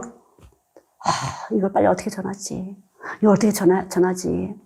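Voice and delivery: sighing, hushed fretting to oneself; anxious urgency. Retold or imitated. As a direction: fret under your breath, mildly acted. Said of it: "안타까워요. 급해져요". (안타깝고 조급한 혼잣말)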